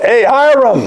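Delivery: high-pitched retold hail; imitated yell. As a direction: imitate someone calling out down a corridor. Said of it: "he would yell out".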